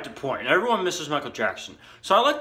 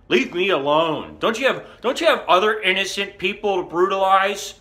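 louder, raised-pitch complaint; mildly hammed-up grievance at the cop; acted indignant protest; 8 semitones higher, 5 dB louder than usual. Telling the cop to leave him alone, indignant.

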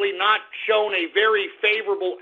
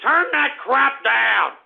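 annoyed command; 4 semitones higher, slower than usual. Acted. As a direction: drag out the demand to turn it down. Repeated demand.

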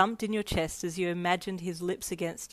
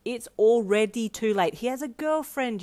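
higher, emphatic retort; shot back; 4 semitones higher, 3 dB louder than usual. Acted. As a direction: fire it straight back. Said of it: "you shot back".

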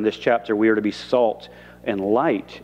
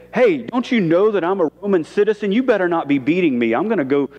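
mock indignant threat; 4 semitones higher than usual. Mock angry Paul threat.

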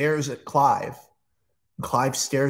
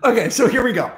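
louder, eager launch into it; excited; 5 semitones higher, 4 dB louder, faster than usual. Real, not acted. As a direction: pump it up before the big reveal. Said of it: "I'm excited".

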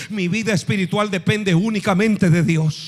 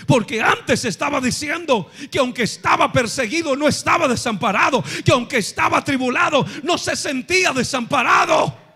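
a fervent higher pulpit cry; preaching shout; 4 semitones higher than usual. Acted. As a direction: preach it with rising fire. Sermon climbs to shouting.

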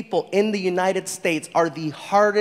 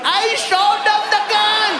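put-on very high, loud Indian-accented protest; Indian accent, exasperated; 12 semitones higher, 6 dB louder than usual. Failed robber defending himself to partner, exasperated Indian accent.

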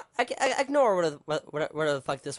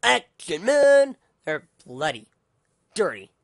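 mock trailer announcer; 6 dB louder, slower than usual. Ranting vlogger mocks action movies in a hammed-up trailer voice. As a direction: hype it up like a sarcastic action-film ad.

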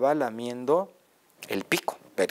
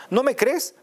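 mock surprise; 12 semitones higher, 6 dB louder than usual. Mouse challenges the Gruffalo.

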